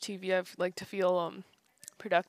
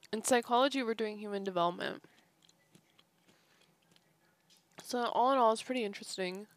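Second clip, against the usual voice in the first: mouth full. Real, not acted. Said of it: "Sorry, I'm eating as I do this".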